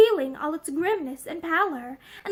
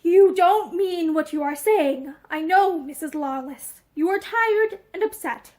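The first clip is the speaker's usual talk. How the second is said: desperate reassurance; 2 semitones higher than usual. Acted. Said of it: "With a desperate effort, he found his voice".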